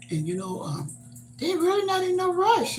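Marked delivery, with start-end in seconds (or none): 1.4-2.8 much higher lightly voiced kids; tossing off their casual answer; higher quoted grandkids shrugging it off; voicing the grandkids.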